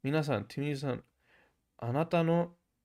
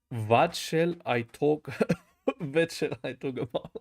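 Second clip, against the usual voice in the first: mock German accent. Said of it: "German accent is funny".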